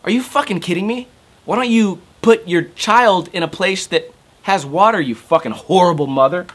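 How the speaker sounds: high, exasperated mock yell; a hint of his furious rant; retold angry outburst. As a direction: relive scolding the neighbour, indignant. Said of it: "And I'm like".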